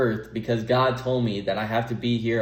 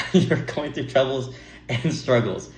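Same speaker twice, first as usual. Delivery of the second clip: laughing; slower than usual. Real, not acted. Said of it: "I thought it was funny".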